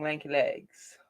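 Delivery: normal talking voice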